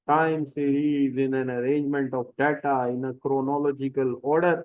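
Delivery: a student reciting the definition slowly, word by word; slow rote recitation. Retold or imitated. Teacher imitating a neighbour's girl reciting the time series definition, slow and rote. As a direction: spell out the definition like a dutiful pupil.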